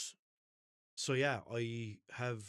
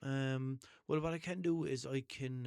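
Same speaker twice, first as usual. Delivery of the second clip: mock phone agent; 6 semitones higher, 3 dB louder, slower than usual. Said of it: "He was like".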